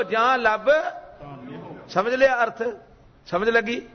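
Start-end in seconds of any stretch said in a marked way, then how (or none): 0.0-1.8 call and response. Shown as a demonstration. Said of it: "ਬੋਲੋ".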